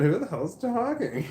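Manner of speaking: sudden demanding yell, half retold; retold shout. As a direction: bark out the demand. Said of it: "When I said".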